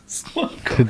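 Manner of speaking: hushed whispered echo. Pretend. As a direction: whisper it back. Repeats name whispering.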